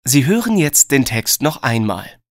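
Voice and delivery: ordinary talk, nothing marked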